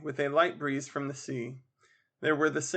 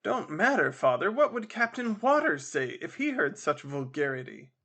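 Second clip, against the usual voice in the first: pitying malice. Acted. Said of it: "pity blended with malignity".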